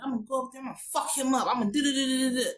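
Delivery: mildly worked-up imitation of an angry dad; playful tough-guy threat, running into rapid "do, do, do"; mock pissed-off father. Father threatening to go up there, mock angry. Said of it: "the father gets pissed off".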